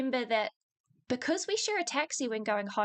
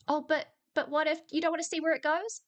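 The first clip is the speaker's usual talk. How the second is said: retold wheedling suitor; 5 semitones higher, faster than usual. Acting out the persistent suitor.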